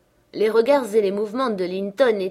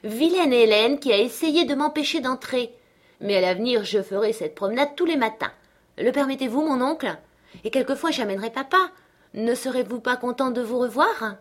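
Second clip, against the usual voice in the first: put-on high, eager girlish chatter; excited young girl; 6 semitones higher, 4 dB louder than usual. Catherine planning morning visits to her uncle, excited. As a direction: plead happily, voice pitched up.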